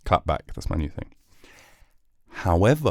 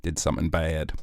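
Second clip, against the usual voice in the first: softer, ominous "did something bad"; quiet dramatic confession; hushed dramatic; 4 semitones lower, 7 dB quieter than usual. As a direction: drop the voice for the reveal.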